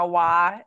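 WHY drawn out as Southern "wah"; slow "why" with the glide flattened; Southern pronunciation. Shown as a demonstration. Showing how it comes out unguarded, Southern pronunciation. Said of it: "like, really funny".

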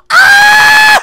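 high held shriek after a short word; overwhelmed outburst at high pitch; distraught scream. Real, not acted. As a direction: break off into a long scream. Freaking out over dead dog.

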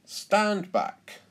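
high, loud warning; confident command. A narrator's reading. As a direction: order everyone to clear space for your big swing. Dad preparing to swing hammer.

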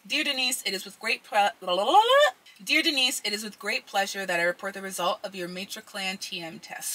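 reading aloud with a retainer in; words slurred around a retainer; wearing a retainer. Real, not acted. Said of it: "I've also got my retainers in".

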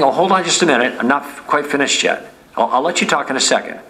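light, easy friendly interruption, the last line quick. Shown as a demonstration. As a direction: politely hold them off with a smile. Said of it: "You just do that simple thing".

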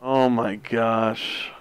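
slow, drawn-out disbelief; exasperated groan. Real, not acted. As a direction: groan it out slowly. Exasperated at wasted marks.

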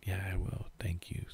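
soft whispered thank you; hushed grateful whisper. Retold or imitated. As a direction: whisper it so nobody wakes. Thanking friend late at night.

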